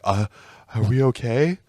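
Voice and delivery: put-on timid little kid voice, small and unsure; mock a scared ten-year-old asking for reassurance. Becky Lynch as a scolded kid, meek and worried. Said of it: "a fucking ten-year-old who got yelled at".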